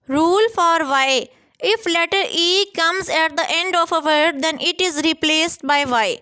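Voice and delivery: spelling rule read slowly for students; slow dictation. Shown as a demonstration. Teacher to students reading the rule, slow dictation. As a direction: dictate each word slowly and evenly.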